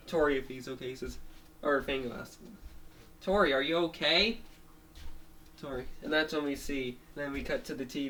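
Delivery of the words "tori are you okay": raised voice, questioning lilt; lightly acted check-in, louder and rising; concerned friend. Fango checking on tired Tori, concerned rising question.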